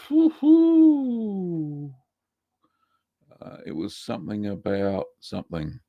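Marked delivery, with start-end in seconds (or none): 0.1-1.9 high, loud whoop of delight; excited woo-hoo. Real, not acted. Host cheering to himself while finding his place in the chat, a high excited whoop. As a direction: cheer it out like a small win.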